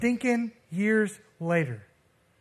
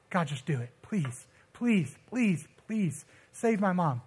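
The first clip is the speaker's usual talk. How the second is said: retold pleading; 3 dB quieter than usual. Son begs God to save his mom, pleading. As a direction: beg softly, drawing out the last words. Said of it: "But I'm pleading with God".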